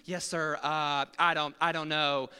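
a hint of a nervous attendant; meek attendant. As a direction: answer helplessly. Attendant answers meekly.

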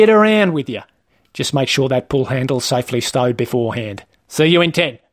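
lightly voiced matey rule-keeper; Wayne, officious trainer. Trainer forbidding the learner his esky seat, officious. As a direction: advise him with petty authority.

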